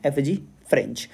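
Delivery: ordinary talk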